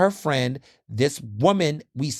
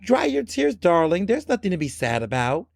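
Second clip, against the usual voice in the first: higher, syrupy condescension; mock condescending; 3 semitones higher than usual. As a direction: pat her on the head with words.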